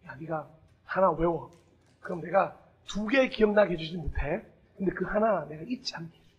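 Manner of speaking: gentle Jesus voice. Pretend.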